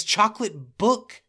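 high, slow, drawn-out mock Michael; imitating Michael's delivery. Host quoting Michael to co-host, slow and high. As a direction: stretch out book with a rising lilt. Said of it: "And the way that he says".

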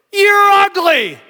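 high, slow parrot insult; squawking parrot. Acted. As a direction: draw out the taunt in a high bird voice. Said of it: "the parrot would go".

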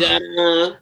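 celebrating quitting the job; proud declaration; emphatic done. Real, not acted. Repeated done contrast.

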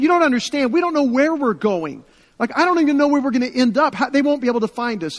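high and loud, quickening in disbelief; anxious protest. Retold or imitated. Refugee protesting to her rescuer, anxious and disbelieving. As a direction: object that no one could ever find them.

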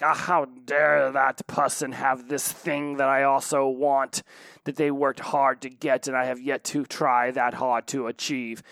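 hammed-up envious outrage, drawn out; mock indignation. Imagined envier fuming about another person's success, mock indignant. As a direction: play at being affronted by someone's success.

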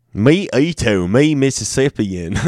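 mock primitive voice, grinning through it; smiling caveman voice. Caveman intro while reading state names, smiling. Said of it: "I was smiling too much when I said that".

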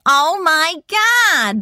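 high, nasal catchphrase, drawn out slowly; loud, stretched-out nasal sitcom shriek; Janice. Shown as a demonstration. Sitcom character's catchphrase in a demo, high nasal voice. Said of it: "high-pitched nasal voice".

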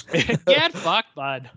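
ordinary talk

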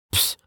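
scoffing puff of air; dismissive puff. A narrator's reading. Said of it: "Brovos puffed".

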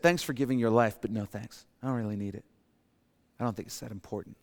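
dismissive brush-off. Pretend. Everyone turning down Jesus's sacrifice, soft and dismissive. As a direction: shrug off the gift. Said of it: "We've all said".

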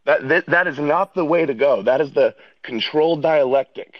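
winded from walking home; out of breath. Real, not acted. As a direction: talk while catching your breath. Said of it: "why do you sound so out of breath".

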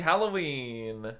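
slow stretched out Halloween; drawn-out spooky. Pretend.

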